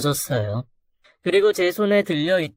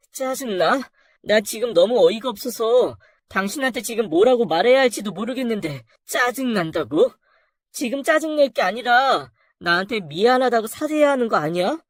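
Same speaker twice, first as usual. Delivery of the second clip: incredulous angry wife; 4 semitones higher than usual. Acted. Wife furious at husband.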